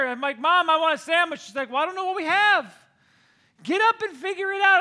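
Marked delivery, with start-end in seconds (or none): 0.4-1.4 put-on whiny kid. Kid whining to mom. 1.7-4.8 mom brushing off. Retold or imitated. Mom answering retold.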